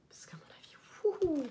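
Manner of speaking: chuchotement plus haut et lent; traîne la phrase dans un souffle taquin; chuchoté aigu. Real, not acted. Plaisante sur l'haleine épicée. (chuchoté avec malice)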